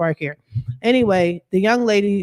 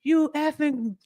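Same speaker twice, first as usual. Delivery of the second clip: mock cursing; 8 semitones higher, 4 dB quieter than usual. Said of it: "start instantly cursing".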